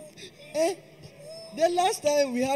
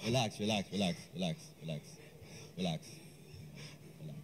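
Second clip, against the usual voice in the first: much softer, lower relax; soothing hush; 17 dB quieter, faster than usual. Acted. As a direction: hush him down gently. Calming a crying friend.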